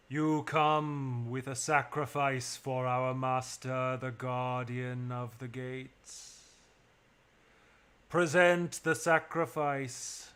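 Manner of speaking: slow, grand priestess voice; slow, solemn cult priestess demanding the offering; commanding priestess. Acted. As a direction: intone it like a ritual command. GM voices Melista.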